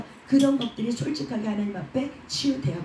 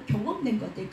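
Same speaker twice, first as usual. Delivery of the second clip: ordinary delivery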